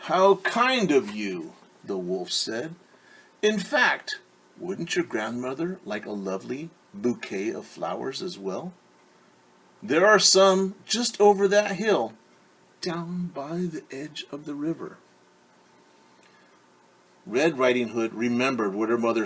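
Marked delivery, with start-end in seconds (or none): 0.1-1.5 a lightly voiced wolf, slow and smooth; smooth-talk the girl while hiding hunger; sly wolf. Wolf sweet-talking Little Red on the path, slyly. 3.4-15.0 put-on smooth-talk the girl while hiding hunger; sly wolf. Wolf sweet-talking Little Red on the path, slyly.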